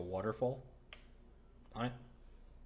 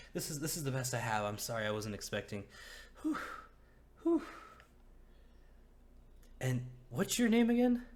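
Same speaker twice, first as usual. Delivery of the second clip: higher, louder apologetic woman; flustered host; 5 semitones higher, 6 dB louder than usual. Acted. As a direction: fuss and apologize. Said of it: "She's like".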